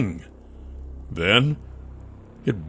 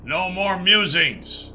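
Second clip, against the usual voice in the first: higher, slow, voiced warning; snarling warning; 9 semitones higher than usual. Nath shaking a gnome and warning the gnomes, slow snarl. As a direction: threaten them slowly. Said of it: "lips curling up in a snarl".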